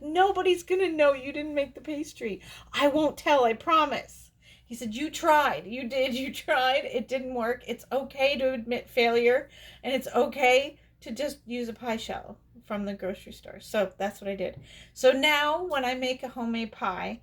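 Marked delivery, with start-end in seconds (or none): 0.0-4.3 higher, louder, emphatic reassurance; imitated reassuring husband. Voices ex-husband reassuring her. 5.0-13.6 higher, emphatic retold encouragement; imitated consoling husband. Voices ex-husband consoling her.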